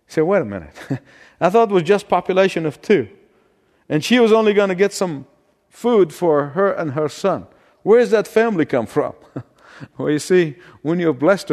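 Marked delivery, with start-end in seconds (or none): 0.2-9.1 mock surprise. Listener puzzled by sudden family.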